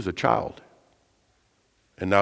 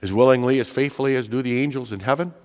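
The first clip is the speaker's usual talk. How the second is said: disbelieving question, rising at the end; incredulous echo; faster than usual. Acted. Child of God balking at God's demand, incredulous. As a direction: throw the demand back as a doubtful question. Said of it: "You gotta be kidding me".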